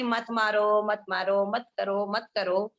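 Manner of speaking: imitating a patient, affectionate appeal; gentle pleading. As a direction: plead lovingly, dropping the pitch. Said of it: "प्यार से बोल बोल के".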